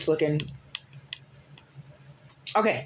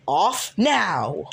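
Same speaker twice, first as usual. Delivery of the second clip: short, louder order; a little bit yelly; 5 dB louder than usual. Retold or imitated. Vin ordering Eddie off his account, a louder yell. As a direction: snap the command like an angry friend. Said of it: "When I sound, like, a little bit yelly".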